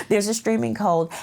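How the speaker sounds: laughing through the words. Real, not acted. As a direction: say it while chuckling.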